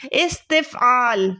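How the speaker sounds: استفعال drawn out slowly, syllable by syllable; slow dictation. Shown as a demonstration. Teacher introducing the last verb, slowly dictating. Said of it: "That is استفعال۔".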